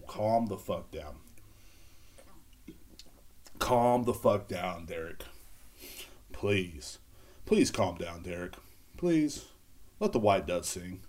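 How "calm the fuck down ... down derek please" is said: mock pleading. Others pleading with him to calm down.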